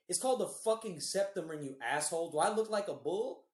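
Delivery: mildly indignant retold outburst; mock-angry, ending on an affronted question; mad. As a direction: imitate an offended woman telling someone off. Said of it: "And she got so mad".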